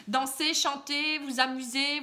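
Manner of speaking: slow words through a laugh. Real, not acted. Reader lists fun activities to viewer, still laughing. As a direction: let the laugh carry the words. Laughing after odd word.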